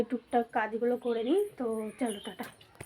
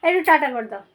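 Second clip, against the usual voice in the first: high, loud coaxing voice; 9 semitones higher, 9 dB louder, slower than usual. Real, not acted. Coaxing child to say bye.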